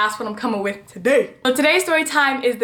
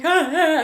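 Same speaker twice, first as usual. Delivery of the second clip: mock gasping; 4 semitones higher than usual. Mimics gasping after dash for bus.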